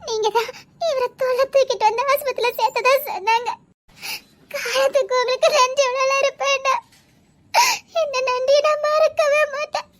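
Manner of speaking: a grateful wife crying her thanks at the hospital bedside; tearful thanks. Acted. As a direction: voice wet with tears, pleading gratitude. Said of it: "அ-, அழாத".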